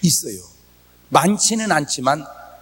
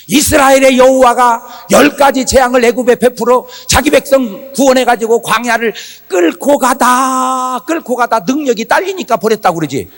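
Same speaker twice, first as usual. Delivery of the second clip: Moses' argument; 5 semitones higher, 3 dB louder than usual. Retold or imitated. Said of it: "모세가 뭐라고 기도한지 아세요?".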